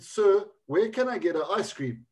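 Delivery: put-on South African accent, polite request. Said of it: "my easier South African accent".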